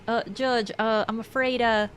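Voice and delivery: lightly imitated Southern lawyer; earnest, halting plea in a mild Southern accent; a touch of flustered Southern lawyer. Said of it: "That Southern accent cat meme".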